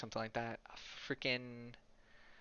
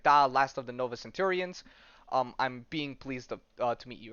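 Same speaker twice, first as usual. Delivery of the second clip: put-on Russian accent; 2 semitones lower than usual. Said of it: "it's in a Russian accent".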